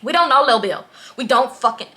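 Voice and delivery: annoyed telling-off of a friend. Retold or imitated. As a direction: retell it fed up, pushing the words. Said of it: "I'm annoyed".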